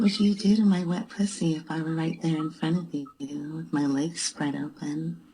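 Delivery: voice changer. Pretend. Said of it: "this is her with a voice changer".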